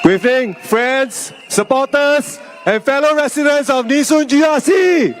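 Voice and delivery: straining through a sore throat; speaking with a sore throat, pushing. Real, not acted. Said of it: "I'm having a sore throat".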